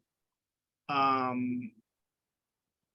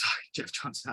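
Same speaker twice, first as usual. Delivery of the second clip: laughing apology; 3 dB quieter, faster than usual. Real, not acted. Laughs at own wrong name.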